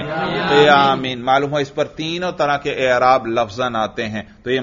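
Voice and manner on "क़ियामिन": slow, careful क़ियामिन with -in ending; jarr ending demo. Shown as a demonstration. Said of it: "जर पर तलफुज करें".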